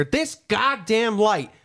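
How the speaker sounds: drawn-out, fed-up grumble; a slow, weary retold swear; dad's slow exasperated curse. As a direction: drag out the curse, slowly. Dad cursing again, slowed.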